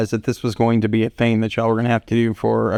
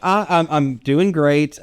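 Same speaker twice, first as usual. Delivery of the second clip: talking around a mint; strong mint; slower than usual. Real, not acted. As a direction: mint in the mouth. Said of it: "I put a mint in my mouth".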